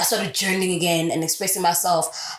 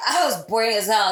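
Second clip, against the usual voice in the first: laughing through words; 2 semitones higher than usual. Real, not acted. Laughing at herself.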